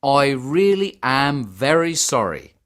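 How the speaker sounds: sincere apology, leaning on really; sympathetic. Acted. Ticket man to Harminder about her ill dad, sympathetic. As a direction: offer it with real sympathy. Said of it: "the man said sympathetically".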